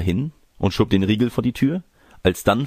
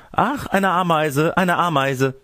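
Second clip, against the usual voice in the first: high, drawn-out squeal of dismay; alarmed cry; 11 semitones higher than usual. Acted. Girl breaking off the wooer's advances over an ant, alarmed cry. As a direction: cry out high, stretching the first words.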